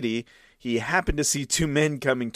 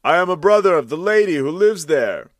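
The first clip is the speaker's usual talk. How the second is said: uneasy reply; 6 semitones higher, 7 dB louder than usual. Acted. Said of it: "not without some misgivings".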